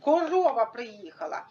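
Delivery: slow sing-song, last word in separate syllables; drawn-out playful teacher voice; playing with a child. Shown as a demonstration. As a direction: narrate the game for a child, ending КО-РО-ВА. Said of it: "Можна грати в таку гру".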